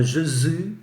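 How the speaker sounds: Jésus said the French way, zh sound, stress at the end; slow teacher demo of French Jésus. Shown as a demonstration. Teacher models the French form for the class. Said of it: "em francês fala".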